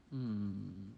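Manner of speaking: unvoiced whispered suggestion. Real, not acted. Child whispering a name to the teller, in a whisper. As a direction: whisper it to the storyteller.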